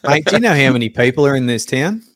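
lightly voiced Aussie bloke asking; hint of a blokey character voice; pub survey taker. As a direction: quiz a local casually over a pint. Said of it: "asking people".

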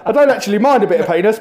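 quick, through laughter; chuckling while he talks; laughing. Real, not acted. Laughing at his own joke.

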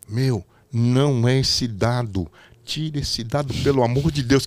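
slow, pleading voice in the earpiece; anxious director. Retold or imitated. Director pleading over the earpiece, slow and urgent. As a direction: beg him to swap the die. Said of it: "O Renato me fala pra mim no ponto".

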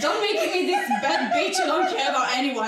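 loud tipsy laughing talk; laughing and slurring it out. Real, not acted. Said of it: "Sorry, I'm tipsy".

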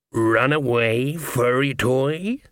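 slow, purring predator voice; toying cat-man. A narrator's reading. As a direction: draw it out like a cat playing with prey. Cat-man toys with prey.

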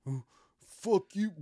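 hammed-up fight cry; mock yell. Retold fight climax.

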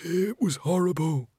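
high, slow, haunted moan; horrified muttering. A narrator's reading. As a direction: draw it out weakly in horror. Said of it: "he muttered".

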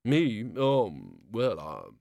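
flustered splutter. A narrator's reading. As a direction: caught off guard, fumbling. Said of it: "the O-God spluttered".

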